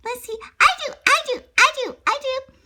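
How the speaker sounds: put-on high, eager little girl pleading to be picked; a child bouncing in her seat, begging.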